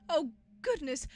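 lightly voiced genteel monster, apologetic; polite monster. Monster reassures an alarmed visitor, lightly voiced and polite.

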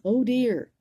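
high, loud startled snake; mock alarm. Snake seeing the Gruffalo, high mock dismay. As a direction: gasp it out, worried. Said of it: "he said".

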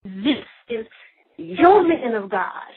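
slow, mildly indignant recital; mock-mad complaint, drawn out; retold anger at God. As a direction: lean hard on the words as if throwing them back at God. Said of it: "I would get mad at God and be like".

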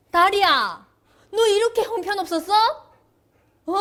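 high, quick teasing scold; mock scolding. Real, not acted. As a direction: tease the dog for failing. Scolding the dog playfully.

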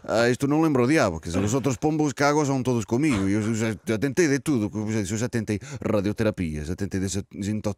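put-on exasperated, heavily Spanish-accented Portuguese; put-on Spanish lilt over Portuguese. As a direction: complain in a comic Spanish accent. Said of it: "esta pronúncia de".

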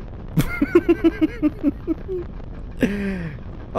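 long, high giggling fit; giddy giggle. Real, not acted. Player about to crash the vehicle, giddy high giggling. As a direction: giggle high and keep it going.

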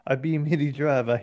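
lightly voiced Taye Diggs; a hint of a Taye Diggs put-on; Taye Diggs impression. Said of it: "that was my Tay Diggs impression".

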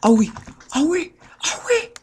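high loud cries of ah oui rising into panic; real excited yelling; frantic yelling. Real, not acted. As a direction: lose control in a shriek. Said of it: "je me calme".

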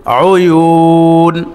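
"অয়ুন" with a long level u, ending on a vowelless n; "অয়ুন" held out long, as at a pause in recitation; waqf stop. Shown as a demonstration. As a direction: chant "অয়ুন" very slowly and close on the bare nun. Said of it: "এখানে ওয়াকফ করলে".

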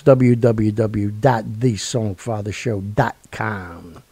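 slow, deliberate spelling; slow, careful web address read; slow spelled-out address. Shown as a demonstration. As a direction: spell each letter out clearly. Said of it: "spelling out the web address".

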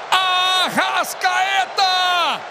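ordinary delivery

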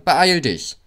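high, loud urging; calling out. A narrator's reading. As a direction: call impatiently to a slowpoke. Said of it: "riefen die Wagen".

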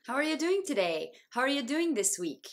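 "are you" in "How are you doing" as "er-ya"; both words reduced. Shown as a demonstration. Teacher giving examples, "are you" reduced to "er-ya". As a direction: run it together as "how-er-ya doing". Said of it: "RとUの両方が変化することがよくあります".

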